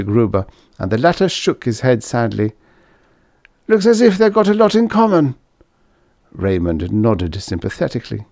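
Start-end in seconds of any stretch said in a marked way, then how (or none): 3.7-5.3 sad weary man. A narrator's reading. Gruber sadly comments.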